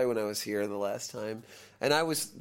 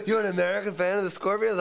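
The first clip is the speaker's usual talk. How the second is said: high, raised-voice impression of a thrilled star; excited amazement; 7 semitones higher, 4 dB louder than usual. Rock star to his American fan, excited amazement. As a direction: act out his delighted disbelief, pitched up. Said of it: "And he got so excited".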